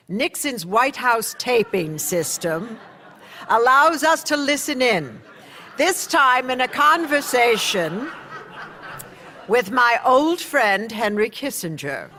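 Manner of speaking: wry, laughing narration; amused. Real, not acted. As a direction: narrator chuckling as she introduces the tape. Narrator wryly introduces the Nixon tape.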